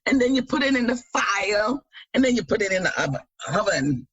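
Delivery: hint of a Jamaican accent. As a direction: try a Jamaican lilt on the recipe. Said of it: "use that Jamaican accent".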